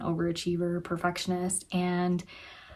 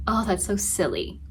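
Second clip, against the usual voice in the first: gentle self-talk. Shown as a demonstration. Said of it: "I would say".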